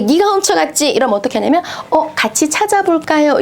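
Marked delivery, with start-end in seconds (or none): 0.0-0.9 accusing patient. Retold or imitated. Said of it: "만약에". 1.9-3.4 a light, higher, easygoing offer; smooth, easygoing. Shown as a demonstration. Caregiver humoring a suspicious patient, lightly voiced and easygoing. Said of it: "이렇게 능글능글해져야 돼요".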